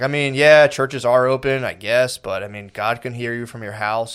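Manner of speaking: lightly mocking a politician with attitude; snippy. Mayor asked about churches, imitated as snippy. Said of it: "he's getting fucking snippy".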